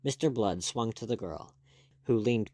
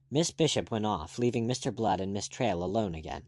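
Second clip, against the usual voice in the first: ordinary delivery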